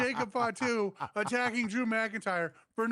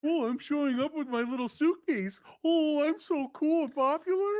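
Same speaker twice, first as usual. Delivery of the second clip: mocking Talon; 4 semitones higher than usual.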